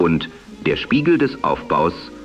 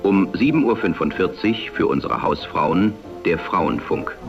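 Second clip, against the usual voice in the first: am radio. Acted. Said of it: "die dem damaligen Sprechstil nahekommt".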